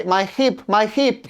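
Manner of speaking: mock Russian accent. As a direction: imitate a Russian saying heap with a long ee. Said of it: "they wanna say".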